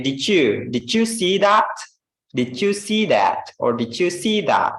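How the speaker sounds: "did you" merged to "didju"; connected speech demo. Shown as a demonstration. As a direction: blend D and Y into J. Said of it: "we say".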